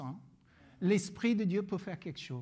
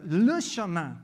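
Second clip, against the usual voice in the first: "le" hit hard and louder, then "chemin" falls; stress on LE; 6 dB louder, slower than usual. Retold or imitated. Pastor quoting Jesus to a hitchhiker, stress on "le". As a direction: punch the word "le" in "le chemin". Corrects quote to stress definite article.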